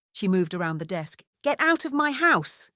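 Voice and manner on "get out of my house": firm order, higher, with a threat underneath; firm, menacing. Acted. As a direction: throw her out, firm and menacing. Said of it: "Her tone was firm, but there was menace".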